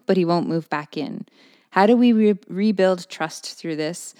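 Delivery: steady read-aloud voice; letter reading. Acted. Reads listener letter aloud.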